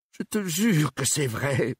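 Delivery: high-pitched, slow, insistent plea; panicked. A narrator's reading. Suspect protesting his truthfulness to detective, panicked. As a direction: swear it in a rising panic, voice high. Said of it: "paniqua Cormier".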